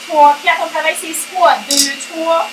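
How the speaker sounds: playful fitness-class count; aerobics instructor. Pretend. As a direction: count out squats like an aerobics coach. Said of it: "Ça s'appelle aérobie et cuisine". (monitrice d'aérobie qui compte en rythme)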